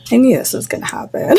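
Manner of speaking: real laugh taking over at the end. Real, not acted. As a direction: blurt it, then crack up. Cracks up mid-reading.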